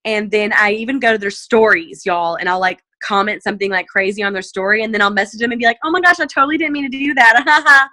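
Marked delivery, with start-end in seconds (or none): 5.8-7.9 mock innocent apology. Fake apology after a crazy comment.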